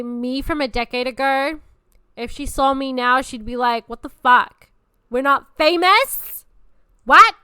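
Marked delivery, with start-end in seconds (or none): 3.9-7.3 loud, high, rising shock; outraged disbelief. Acted. Younger self learning she isn't famous, outraged disbelief. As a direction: act a hammed-up stunned outburst.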